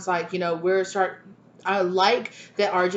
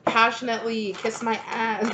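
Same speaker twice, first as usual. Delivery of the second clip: thrilled; 5 semitones higher, slower than usual. Retold or imitated. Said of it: "and you're just like".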